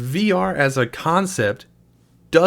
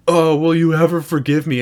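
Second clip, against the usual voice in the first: hammed-up sobbing plea, louder; mock crying plea; 2 semitones higher, 5 dB louder than usual. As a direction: overact a tearful plea, louder. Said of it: "he's crying this just horrible scene-chewing bullshit cry".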